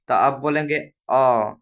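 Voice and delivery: अ said short and quick; short vowel demo. Shown as a demonstration. Teacher contrasting the short vowel, clipped. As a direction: clip अ off quickly. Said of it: "लब्ध बोला जा रहा है".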